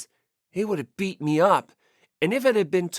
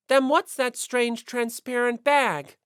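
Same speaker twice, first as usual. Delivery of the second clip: a bit slower, pressing voice; pointed question; 5 semitones higher, 4 dB louder, slower than usual. Acted. Kirigiri questioning Yamada, lightly voiced pointed challenge. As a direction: set the trap calmly.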